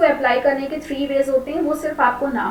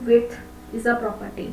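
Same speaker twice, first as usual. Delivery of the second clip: slow dictation; much slower than usual. Shown as a demonstration. Teacher dictating a definition.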